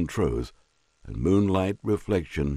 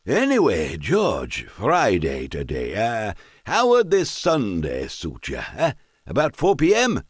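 put-on drunk squire; 3 semitones higher than usual. Squire invites George.

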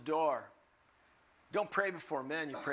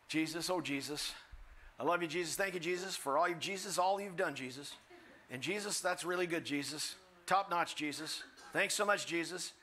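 mock prayer peppered with a name; lightly acted babbling prayer. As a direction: parody someone rattling through a repetitive prayer. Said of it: "heard somebody pray like this".

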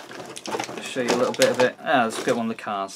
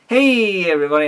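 cracking voice; 5 semitones higher, 6 dB louder than usual. Retold or imitated. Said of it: "my voice kept cracking".

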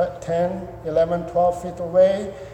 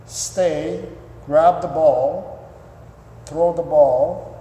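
giving dog commands; much slower than usual. Shown as a demonstration. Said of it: "and you say".

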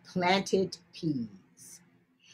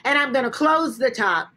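put-on girl scolding rabbit; 3 dB louder, faster than usual. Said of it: "She said".

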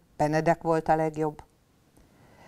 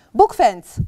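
loud, sharp call of a father rabbit; papa bunny calling out the next game; shouted command; 5 semitones higher, 10 dB louder than usual. Acted. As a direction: bark out the order to the kids. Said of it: "kiáltotta Nyuszi papa".

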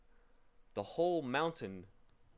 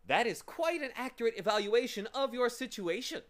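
high, cold pronouncement; loud, cold villain voice; 9 semitones higher, 5 dB louder than usual. A narrator's reading. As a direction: coldly confirm their plight, voice raised. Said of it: "said the voice coldly".

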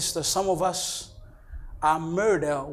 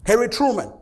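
raised, emphatic preacher's delivery; forceful preaching; 6 semitones higher, 8 dB louder than usual. Real, not acted. Pastor urging brothers and sisters to be born again, forceful preaching. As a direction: punch the key words for the congregation.

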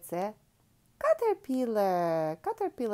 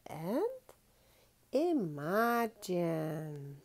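slow, dreamy whisper; slow hushed invitation; 2 semitones lower, much slower than usual. Acted. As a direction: breathe the word out to spark wonder. Inviting children to imagine.

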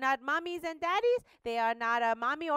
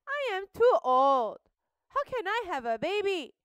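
higher, incredulous protest; doubting old man; 7 semitones higher, 6 dB louder than usual. Acted. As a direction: protest in disbelief. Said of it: "He said".

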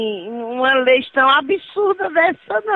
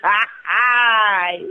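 short laugh breaking out; 3 semitones lower than usual. Real, not acted. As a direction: giggle through a sigh. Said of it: "A senhora tá rindo por quê".

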